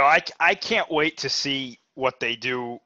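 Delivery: slow, drawn-out mock anticipation; sarcastic. Real, not acted. Talking about upcoming movies to co-host, sarcastic. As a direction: feign eagerness, stretching the words. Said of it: "I'm being sarcastic".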